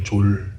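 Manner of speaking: 졸 said softly, as a short single syllable; Chungcheong dialect word. Shown as a demonstration. Explaining Chungcheong dialect for chives, 졸 said softly. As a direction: say 졸, with a plain J sound. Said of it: "졸이라고 그래".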